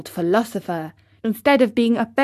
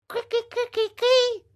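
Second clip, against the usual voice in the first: high, eerie cricket call; a far-off high chirping cricket calling. Acted. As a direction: call out like a hidden little insect. Mysterious voice calling Pinocchio.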